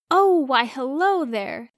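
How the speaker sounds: bright, lifted greeting, slowed on hello there; lightly voiced old shopkeeper, warmly surprised; cheery old shopkeeper. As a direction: greet the young man like a grinning old shopkeeper. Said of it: "the shopkeeper said with a grin".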